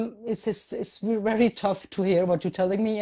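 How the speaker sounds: real feeling welling up as she speaks; choked up. Real, not acted. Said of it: "I'm getting all emotional".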